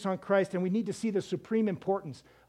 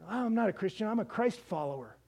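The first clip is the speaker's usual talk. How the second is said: mildly mocking quote; 5 dB quieter than usual. Preacher imitating believers who avoid the Christian label, mildly mocking. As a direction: lightly put on a self-conscious disclaimer.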